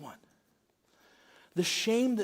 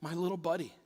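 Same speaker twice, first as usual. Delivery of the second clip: tender; 8 dB quieter than usual. Retold or imitated. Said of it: "tender word he used".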